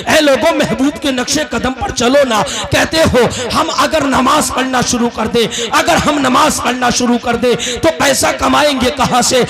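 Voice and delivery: projected, rhythmic sermon delivery; preaching. Acted. Preacher challenging listeners on following the prophet's way, insistent preaching. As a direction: press the listeners with insistent questions.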